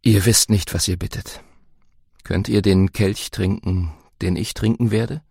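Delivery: Jesus speaking. Acted. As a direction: gently warn them. Jesus answers the mother.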